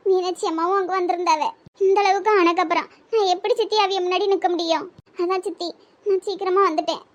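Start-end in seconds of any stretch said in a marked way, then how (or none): 1.9-7.0 mild, subdued weeping; tearful. Acted. Niece confiding in her aunt why she left the function, tearful. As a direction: hold back tears while explaining. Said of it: "அழுவாதடி".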